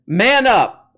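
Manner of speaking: loud barked man up; mock tough command. Mocking Peterson's manhood lecture, loud macho bark. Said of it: "how to man up".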